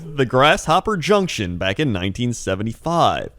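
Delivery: eerie late-night mystery narration; creepy YouTube narrator. Pretend. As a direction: tell it like a spooky internet legend. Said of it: "the voice of those videos you find at, like, two A M on YouTube".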